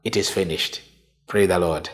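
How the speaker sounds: soft, contented sigh of a finished task; quiet accomplishment. Shown as a demonstration. Preacher showing the congregation a quiet, satisfied finish. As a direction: say it gently, as if the work is done. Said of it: "carrying a sense of accomplishment here".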